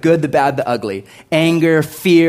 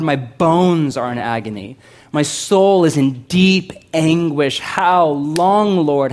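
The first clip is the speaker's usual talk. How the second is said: lament reading; 4 semitones higher, 4 dB louder, slower than usual. Acted. Reading David's lament psalm.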